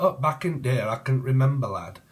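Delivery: lightly put-on northern English voice; a hint of northern English lad; northern English accent. Channeling someone from up north, northern English accent. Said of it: "it could be from up north".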